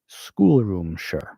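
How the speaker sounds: Schoolroomshire said the English way, run together as one word; English pronunciation. Shown as a demonstration. Teacher demonstrating how English people say the name, English pronunciation. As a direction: say Schoolroomshire like someone from England. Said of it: "you probably would pronounce it".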